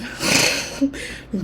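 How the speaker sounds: breathy laugh. Real, not acted. Laughing at her own mishap.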